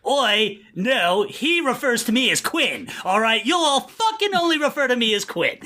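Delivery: high, laughing British rant; British star insisting on his name, laughing; mock Bale, British. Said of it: "imagine Bale being like".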